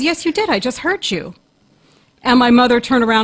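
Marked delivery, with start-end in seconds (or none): 0.0-1.3 put-on insistent child. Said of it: "I goes".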